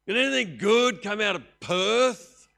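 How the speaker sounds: high, loud mocking sneer; scornful jibe. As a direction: sneer at the town like a snob.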